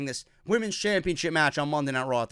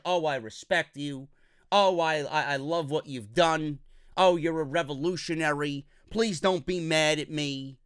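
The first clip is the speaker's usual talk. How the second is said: mocking Ronda pandering; 3 semitones lower, 4 dB quieter than usual. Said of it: "nothing but pandering to Sasha".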